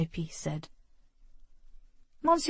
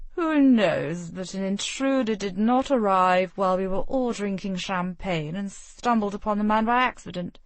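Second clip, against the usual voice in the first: a prince soothing the room, a touch louder; expansive princely voice; 3 dB louder than usual. Acted. Prince calms the bickering guests, expansive and assured. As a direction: sweep the room with easy charm. Prince smooths over quarrel.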